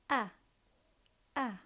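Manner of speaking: short vowel "ah" said twice; teacher repeating the short a sound. Shown as a demonstration. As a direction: model "Ah" for children. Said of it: "phonics sound demo".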